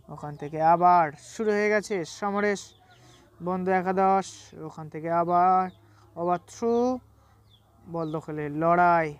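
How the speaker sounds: brisk live play-by-play commentary; bengali football commentary. Acted. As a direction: call the match as it happens.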